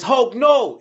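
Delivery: high, loud cry of alarm; horrified cry. A narrator's reading. Elo about to be bitten by Hulk, horrified high cry. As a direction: plead in sudden horror.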